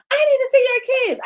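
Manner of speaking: high loud imitating yell; loud demand. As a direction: belt it high like a shouting caseworker. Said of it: "she was like".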